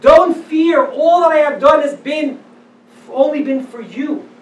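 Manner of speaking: God calling out to frightened Israel, loud and reassuring; God comforting. Acted. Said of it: "And God will say to them".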